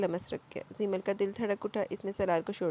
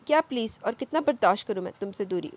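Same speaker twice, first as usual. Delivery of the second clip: exasperated, louder demand; frustrated lover, louder; frustrated anger; 5 dB louder than usual. Acted. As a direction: snap back in frustration. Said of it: "वो सोफे पर गुस्से से हाथ मारता बोला".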